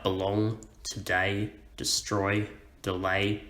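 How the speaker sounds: "belong, today, destroy, delay", each weighted on its second syllable; light first syllable, stressed second in "belong, today, destroy, delay"; word list "belong, today, destroy, delay" with iambic stress. Shown as a demonstration. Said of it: "we stress the second syllable".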